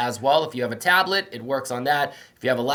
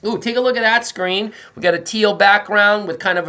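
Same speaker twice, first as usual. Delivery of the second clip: higher, bright-eyed ooh of discovery; excited reveal; 7 semitones higher, 6 dB louder than usual. Real, not acted. Principal showing students a new slide, excited. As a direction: sell the surprise on screen.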